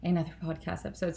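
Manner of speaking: breathless after running inside; slightly winded, catching breath. Real, not acted. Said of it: "Sorry, I'm so out of breath".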